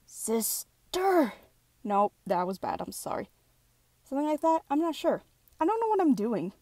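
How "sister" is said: yelled. Acted. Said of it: "say that a little more loudly".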